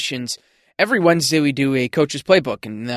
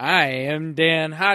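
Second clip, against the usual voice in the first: put-on little robotic voice; 2 semitones higher than usual. Podcast co-host introduces himself, joining his partner's robotic interview bit: robotic accent. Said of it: "I had to follow on with the little accent".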